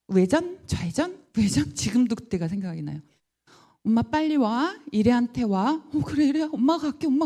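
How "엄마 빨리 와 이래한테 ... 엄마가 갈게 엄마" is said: anxious reassurance. Retold or imitated. Frantic reply to son.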